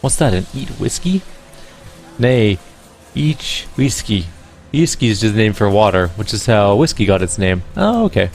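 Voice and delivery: put-on bright-toned Irish accent, musical lilt. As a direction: play her as a lyrical Irish gamer woman. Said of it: "I can't place the accent".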